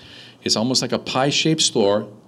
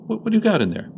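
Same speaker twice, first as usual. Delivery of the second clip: high-pitched nosy question; pitched-up acted curiosity; imitating the drunk; 12 semitones higher than usual. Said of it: "told you about the drunk".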